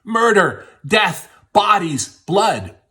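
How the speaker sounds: retelling the housekeeper's screams in a loud, high mock yell; imitating her screams. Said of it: "screaming so loud neighbors could hear her screaming".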